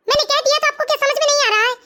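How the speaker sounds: put-on cross, stubborn child refusing; angry refusal. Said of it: "आप क्यों गुस्सा कर रहे हो". (गुस्से में ज़िद भरा इनकार)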